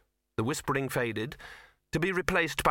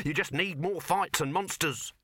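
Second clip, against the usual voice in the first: raised, eager pitch; crowing excitement; 6 semitones higher than usual. A narrator's reading. Dibbler expanding the film, high and eager. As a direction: toss it out gleefully. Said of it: "crowed Dibbler".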